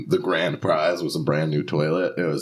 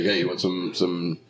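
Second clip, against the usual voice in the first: Delco accent. Shown as a demonstration. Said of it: "do your best Delco accent".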